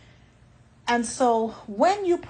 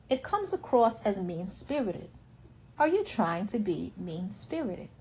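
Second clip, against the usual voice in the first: stern calm tone. Shown as a demonstration. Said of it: "You can be stern in your tone".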